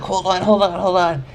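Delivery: high, strained hold on, fading; desperate plea. Retold or imitated. Pleading with the guard while trying to hold it in. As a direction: beg for a moment, straining in pain. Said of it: "I'm like".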